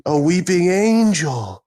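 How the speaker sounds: slow, hushed mock dread; mock spooky warning. Joking to friends about a weeping angel, slow mock dread. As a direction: warn them slowly like a horror trailer.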